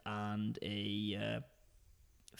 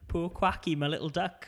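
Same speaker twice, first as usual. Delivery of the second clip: high, laughing; giggling through it; 6 semitones higher, 8 dB louder, slower than usual. Real, not acted. Laughing retelling.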